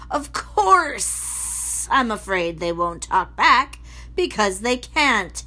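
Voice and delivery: slow, mock-kindly menace; sinister giant. Basil sweetly threatening Measle with the train set. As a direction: drip false warmth over a threat.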